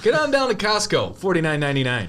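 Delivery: loud, punchy ad-announcer read; mock commercial pitch. Hosts riffing a fake ad, hammed-up announcer voice. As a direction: sell it like a cheesy local ad.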